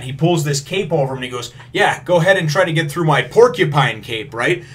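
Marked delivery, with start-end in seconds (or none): 1.7-4.3 higher, louder villain boast; boastful villain. Retold or imitated. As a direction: gloat behind the cape. Krieg boasting behind cape.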